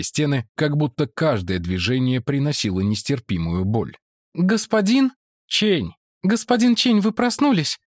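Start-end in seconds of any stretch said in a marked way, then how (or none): 4.3-7.8 high woman's voice; woman character. Acted. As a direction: Mara greets the monk, pitched high. (Мара приветствует монаха высоким женским голосом)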